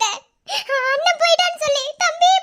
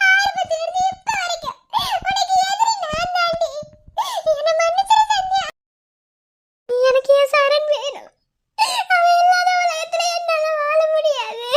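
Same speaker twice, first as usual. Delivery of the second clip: crying out higher, begging forgiveness; sobbing apology; 3 semitones higher than usual. Acted. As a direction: plead through tears. Sobbing plea to Sandhya. (அழுதுகொண்டே மன்னிப்பு)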